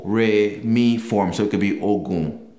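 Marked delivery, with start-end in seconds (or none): 1.8-2.5 Ogun said on a lowish tone; Yoruba tone. Shown as a demonstration. Teacher demonstrating Yoruba tones to learners, low-tone Ogun. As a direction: Ogun with the first take's tone, a touch low. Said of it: "the way you pronounce that letter".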